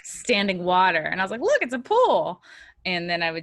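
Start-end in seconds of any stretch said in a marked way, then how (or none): 1.4-2.4 high, drawn-out sarcastic delight; slow, pitched-up tour-guide mockery; mock excitement. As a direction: point it out with fake wonder. Mocking tour of town, acted.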